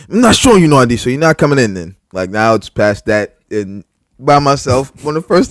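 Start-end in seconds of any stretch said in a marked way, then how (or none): 0.1-1.9 defiant retort. Retold or imitated. Quoted standoff at door.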